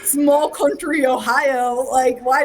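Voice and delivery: laughing while talking. Real, not acted. Telling the host about her British cat, laughing. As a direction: giggle through it at the absurd memory.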